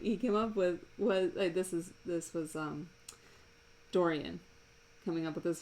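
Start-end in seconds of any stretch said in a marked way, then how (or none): none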